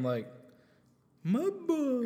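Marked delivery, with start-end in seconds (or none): 1.2-2.1 hype call. Retold or imitated. Hyping the rapper.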